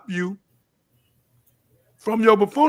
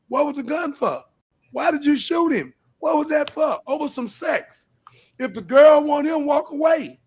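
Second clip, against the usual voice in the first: what was the gun for, a pained, raised voice; scolding a young man; 7 semitones higher than usual. Retold or imitated. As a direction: lecture the young man, demanding why. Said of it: "I just can look at him and tell him".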